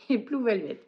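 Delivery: English title said with a French accent. Real, not acted. Vlogger naming the third book title, in a French accent. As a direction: say Blue Velvet the French way, self-consciously. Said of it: "Désolée pour mon accent d'anglais qui est pitoyable".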